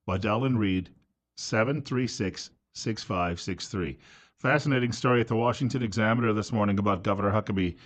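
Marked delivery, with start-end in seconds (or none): 1.4-4.0 number read slowly and softly once more; slow, soft number read for listeners jotting it down; slow, clear phone number. Real, not acted. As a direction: spell out each digit deliberately. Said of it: "a couple of times".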